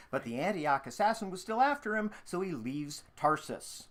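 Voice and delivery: lively previously-on recap; fun recap voice. Acted. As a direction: read it like a playful TV recap. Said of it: "in your fun recap voice".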